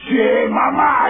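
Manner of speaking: slow drawn-out come-on; smooth talker. Retold or imitated. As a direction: sweet-talk it, slow and loud. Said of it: "say cool stuff to women like".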